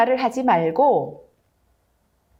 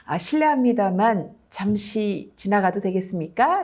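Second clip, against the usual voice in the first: polite cushioned request. Shown as a demonstration. Lecturer showing the polite way to ask someone to move, gentle and courteous. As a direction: ask kindly, with respect. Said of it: "이렇게 하기보다는".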